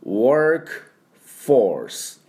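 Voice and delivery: ワーク and フォース split apart and said in English; slow teacher split of ワーク フォース; syllable by syllable. Shown as a demonstration. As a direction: break ワーク フォース into two clear English parts. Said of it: "っていう音になります".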